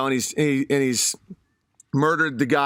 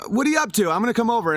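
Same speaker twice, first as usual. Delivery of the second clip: higher, breezy mock-friendly; chummy pig; 5 semitones higher, much faster than usual. Scheming pig inviting himself over, higher breezy tone. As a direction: sound casually friendly, pitched up. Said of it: "And he's like".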